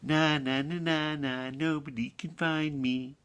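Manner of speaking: light singsong playground taunt; naughty lamb's mild mocking chant; taunting little lamb. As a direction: gloat in a teasing sing-song, slightly high. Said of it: "and he thought".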